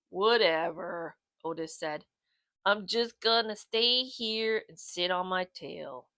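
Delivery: bored and unbothered; lazy bulldog. Acted. Otis voiced in story.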